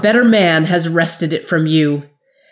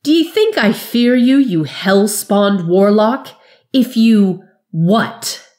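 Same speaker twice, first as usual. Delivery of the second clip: loud, high, slow furious voice; choking fury; 4 semitones higher, 4 dB louder, slower than usual. Acted. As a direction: spit out the curse, strangled with rage. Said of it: "the wizard's voice called in a choke of fury".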